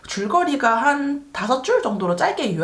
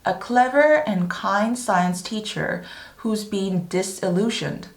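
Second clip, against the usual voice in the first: slow, careful teaching read in phrases; measured, articulated English reading; slow read-aloud; much slower than usual. Shown as a demonstration. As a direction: read the synopsis slowly for learners, pausing between phrases. Reads synopsis aloud slowly.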